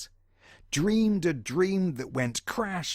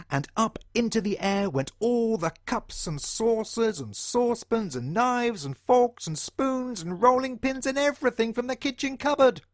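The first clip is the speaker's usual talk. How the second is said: excited storytelling, rising higher and higher; mounting excitement; 6 semitones higher than usual. A narrator's reading. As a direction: pitch climbing steadily through the list. Crockery flies up, list builds.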